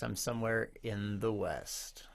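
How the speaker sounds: slow breathy whisper; whispery puppet voice. Pretend. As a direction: whisper it like a small shy creature. Puppet character introduces itself.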